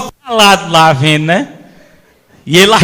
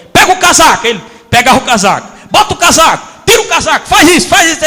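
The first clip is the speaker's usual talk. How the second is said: high, loud barked orders; loud strict trainer giving orders; stern commands; 6 semitones higher, 3 dB louder, faster than usual. Retold or imitated. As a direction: drill him like a strict master. Old master barking orders.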